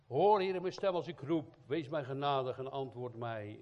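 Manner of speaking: a psalmist shouting to God for help; loud cry to God. Acted. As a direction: cry out the prayer at full voice. Preacher voices the psalmist crying out.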